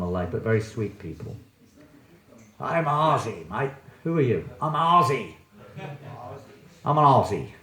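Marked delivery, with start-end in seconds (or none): 2.6-7.5 raised, playful mock declaration; mock Aussie boast. Teacher mimics bodily-minded Australians, mock boast. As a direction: announce it like a mock-proud Aussie. Acting out people proud of nationality.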